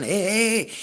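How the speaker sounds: lightly put-on Native American call, pitched high; imitated Native American voice. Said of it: "I've got my best Native American voice going".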